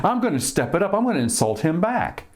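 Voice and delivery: high, rising mock whine of a hurt guy; hurt person backing off. Mocking a man who takes insults personally, high and whiny. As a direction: pitch it way up like a wounded, confused man. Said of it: "And then they go".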